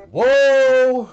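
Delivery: a big, loud, amazed "Whoa!"; loud shocked gasp of a word. Real, not acted. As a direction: blurt out a stunned "Whoa!". Reaction to gameplay.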